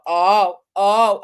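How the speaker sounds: loud startled oh; startled gasp. Retold or imitated. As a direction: blurt out a shocked oh. Startled by man bursting in.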